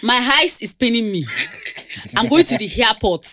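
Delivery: "eyes" and "airport" with a stray H in front; unguarded H factor. Shown as a demonstration. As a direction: let an H slip onto "eyes" and "airport". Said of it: "when I want to be myself".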